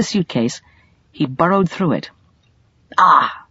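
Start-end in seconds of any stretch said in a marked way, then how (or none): 3.0-3.4 triumphant. Acted. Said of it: "he said triumphantly".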